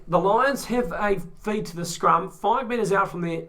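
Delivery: lively sports commentator call; play-by-play commentary. Acted. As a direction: call the rugby action live. Back to play-by-play.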